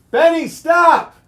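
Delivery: high, loud, drawn-out call to stop Benny; real scolding shout. Real, not acted.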